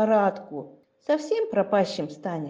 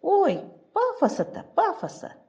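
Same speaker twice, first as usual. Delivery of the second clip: mocking; 10 semitones higher than usual. Mocking the ghost's pompous poem.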